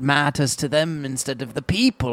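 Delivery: slow, spooky crypt keeper narration; a lightly voiced ghoulish host. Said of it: "I am the crypt keeper".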